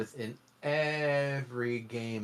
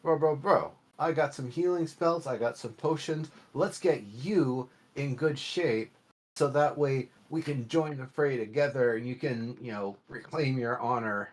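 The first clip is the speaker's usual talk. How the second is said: mock player pitch. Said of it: "can't I be like".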